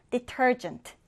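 "detergent" with the stress on TER; stress on second syllable. Shown as a demonstration. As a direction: say "detergent", leaning on the middle syllable. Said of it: "두 번째 음절에 강세". ("detergent" 두 번째 음절에 강세)

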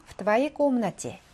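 В твоей комнате read out very slowly, word by word; slow reading aloud. Shown as a demonstration. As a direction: read the phrase slowly for students to follow. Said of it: "박스에 있는 문장". (천천히 또박또박 읽기)

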